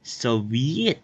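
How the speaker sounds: "Soviet" said slowly as "so-vi-ET", rising; Russian-style Soviet. Shown as a demonstration. Learner trying the Russian sound of "Soviet". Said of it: "is how I pronounce the Soviet".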